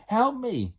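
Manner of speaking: high, loud panicked call; shout. Acted. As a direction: yell for help while falling. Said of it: "he shouted".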